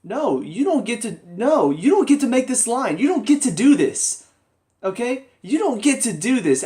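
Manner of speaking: indignant lecture, rising and loud; mock angry rant. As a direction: scold the show like it wronged you. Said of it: "I'm just like".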